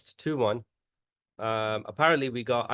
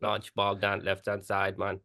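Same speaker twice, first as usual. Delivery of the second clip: slow Jamaican McLaren; 2 semitones lower than usual. Acted. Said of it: "the McLaren Jamaica accent".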